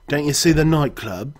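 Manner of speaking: teasing question in Cockney; Cockney accent. Acted. No-Nose joking about the wrecked building, Cockney accent. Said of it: "He has a Cockney accent".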